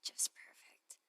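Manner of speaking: whispered, bitter sarcasm under the breath; sarcastic whisper. Acted. Cynthia to herself after the party plans fall through, sarcastic whisper. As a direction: grumble it so nobody hears.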